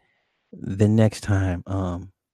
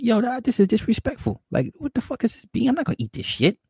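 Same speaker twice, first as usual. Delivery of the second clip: high, put-on voice of a bratty ten-year-old complaining; a mock-whiny kid's complaint; indignant kid. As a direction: play the outraged kid refusing dinner. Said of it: "And I was like".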